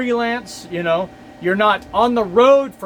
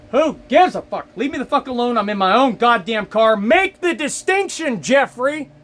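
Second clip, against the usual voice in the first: raised, louder angry outburst at Jeffrey; angry rant; 4 semitones higher, 3 dB louder than usual. Real, not acted. Driver yelling at Jeffrey over app warnings, angry raised voice. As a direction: vent it, pitch climbing higher. Ranting at the app's owner.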